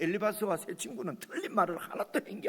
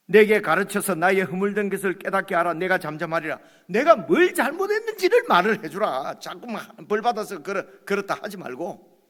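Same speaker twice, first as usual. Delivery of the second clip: Job rebuking; 3 semitones higher, 7 dB louder than usual. Acted. Job pleading, heated.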